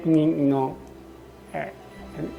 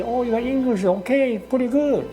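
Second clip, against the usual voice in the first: quoted faint praise; 5 semitones higher than usual. Retold or imitated. Quotes others' condescending praise.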